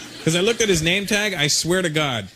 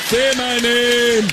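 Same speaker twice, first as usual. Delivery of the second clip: drawn-out, higher, mock-passionate plea; lover building up; 4 semitones higher, 4 dB louder, much slower than usual. Dealer to his woman making love, drawn-out passionate cry. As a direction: stretch it right out, rising in passion.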